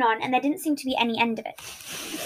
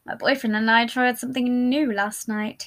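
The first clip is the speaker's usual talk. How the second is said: suggestive. Acted. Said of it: "he winked".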